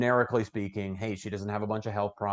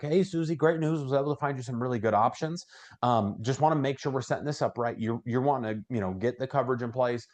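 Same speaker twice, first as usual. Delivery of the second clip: upbeat sales pitch; 2 semitones higher than usual. Shown as a demonstration. Agent calling Susie about her options, upbeat. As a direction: open brightly like it's great news. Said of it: "I'm just gonna say something like".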